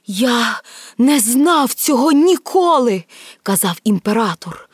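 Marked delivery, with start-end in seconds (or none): 0.1-3.0 distressed protest. Acted. Dying emperor protests to accusing heads.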